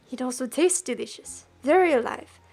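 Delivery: put-on eager customer in a clumsy French accent; attempted French accent. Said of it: "I can't do it".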